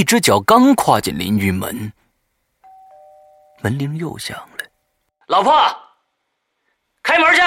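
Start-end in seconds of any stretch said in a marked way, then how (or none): 5.3-7.4 high, loud shout; yelling across the room. Acted. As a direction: bark the order at the door. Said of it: "冲着门外吼道".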